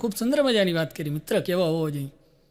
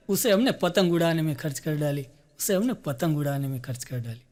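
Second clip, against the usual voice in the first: recited poem. Acted. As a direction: build the verse, then let the refrain die away. Recites full couplet, repeats lines.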